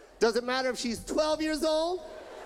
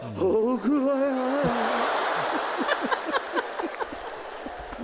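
long drawn-out mock ghost moan; eerie drawn-out howl; ghostly wail; 2 semitones lower than usual. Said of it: "Koreans sound like Asian ghosts".

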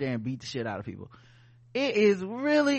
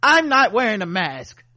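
put-on drunken posh sneer; 2 semitones higher, 7 dB louder than usual. Entitled white person voiced.

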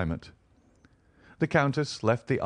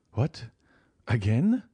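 a touch of a stifled sob; plead, hurt, almost in tears; plaintive exclamation; 4 semitones higher, 3 dB louder, slower than usual. Acted. Mercédès to the Count who refuses again, plaintive. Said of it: "in so plaintive an accent".

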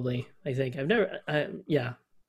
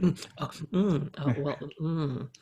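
Jeff Goldblum impression; 4 dB quieter than usual. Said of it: "He's just like".

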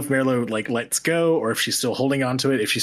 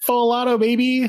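high-pitched, cocky glee; playful bravado; 11 semitones higher, 3 dB louder than usual. Pretend. Player picks the gun's mode, playful bravado. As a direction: relish it like an action hero.

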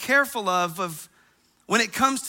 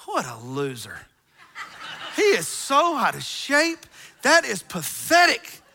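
mocking laugh; 3 semitones higher than usual. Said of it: "I was going".

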